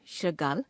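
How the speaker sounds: श्रृगाल as "shragaal", with a; wrong pronunciation. Shown as a demonstration. Teacher showing a common error, श्रृगाल as "shragaal". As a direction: put अ after shr in श्रृगाल. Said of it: "अशुद्ध".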